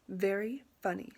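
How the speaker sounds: mildly sarcastic pupil; unamused retort. Acted. Vashti answering her teacher's joke, mildly sarcastic. Sulky student voiced in story.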